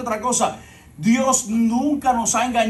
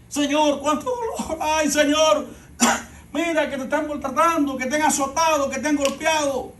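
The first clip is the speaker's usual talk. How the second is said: weeping women; 3 semitones higher than usual. Acted. Weeping women lamenting to Jesus.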